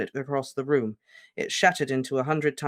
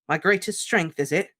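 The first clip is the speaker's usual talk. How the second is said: a touch of shaking bitterness; mildly shaky, bitter echo; 5 semitones higher, 4 dB louder than usual. Acted. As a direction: throw his words back, shaking. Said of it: "his voice shaking".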